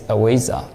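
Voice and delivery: "avijja" said as ah-WAY-zah; Burmese pronunciation. Shown as a demonstration. Teacher repeating our own pronunciation, Burmese form of "avijja". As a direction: use w and z in "avijja", not v and j. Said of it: "our pronunciation is".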